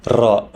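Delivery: "ra" with a trilled, rolled r. Shown as a demonstration. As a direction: roll the r in "ra". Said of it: "but with a roll".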